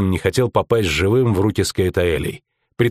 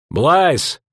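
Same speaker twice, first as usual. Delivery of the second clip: startled cry; 7 semitones higher than usual. A narrator's reading. Soldiers spot rider arriving.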